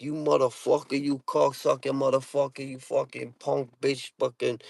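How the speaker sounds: Boston accent coming out in a mock tirade; heated Boston accent. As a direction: rattle off curses like a riled-up Bostonian. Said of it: "they get heated".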